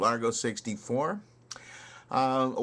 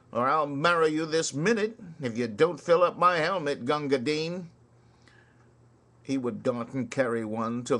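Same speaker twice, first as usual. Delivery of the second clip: rhythmic ballad recital with swinging beat; poem recitation; 2 semitones higher than usual. Acted. Reciting Kipling's soldier ballad to listeners, rhythmic recital. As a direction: recite it like a barrack-room ballad.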